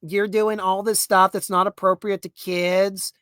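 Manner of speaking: slow, fussy disapproving parent voice; mock the censorship group's prissy complaint; lightly voiced prudish busybody; prim complaining parent. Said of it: "basically going".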